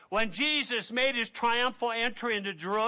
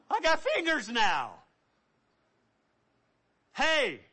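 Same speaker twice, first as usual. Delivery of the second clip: excited; 5 semitones higher than usual. Acted. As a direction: point out each healed part in wonder. Lepers discover healing, acted dialogue.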